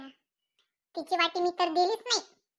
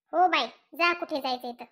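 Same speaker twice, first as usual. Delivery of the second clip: husband grumbling; 6 semitones lower than usual. Acted. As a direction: mutter it after she has gone. Husband grumbles after wife leaves.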